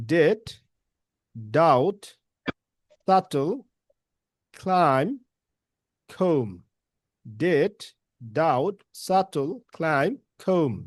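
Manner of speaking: very slow, drawn-out words; slow model reading. Shown as a demonstration. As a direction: stretch each word slowly for learners. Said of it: "বলেন তো এই ওয়ার্ডগুলো". (ধীরে ধীরে model উচ্চারণ)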